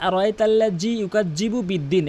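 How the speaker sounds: "আর ওয়াইতাল্লাজি ইউকাজ্জিবু" with a hard j for dhal; common mispronunciation. Shown as a demonstration. Teacher shows how most people misrecite, hard j. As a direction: recite with j sounds in "ইউকাজ্জিবু", vowels short. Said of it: "অধিকাংশ লোক এভাবে তেলাওয়াত করে".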